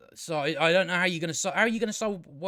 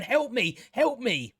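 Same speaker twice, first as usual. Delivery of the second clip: "Help me" pitched higher in a hammed-up plea; hammed-up damsel squeal on "Help me, help me"; mock cry for help; 7 semitones higher, slower than usual. Mocking the screaming woman in the show, hammed-up higher plea. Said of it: "she's going".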